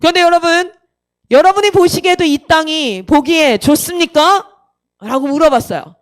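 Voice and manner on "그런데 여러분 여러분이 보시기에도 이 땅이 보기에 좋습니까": lightly imitated pastor questioning the congregation; a hint of pulpit projection; pastor's challenge. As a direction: put the question out to a whole room. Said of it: "목사님이 그 다음에 이렇게 딱 얘기하셨어요".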